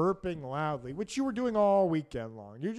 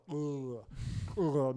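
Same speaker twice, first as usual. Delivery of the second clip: annoyed ugh; 3 semitones lower than usual. Retold or imitated. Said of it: "making an ugh sound".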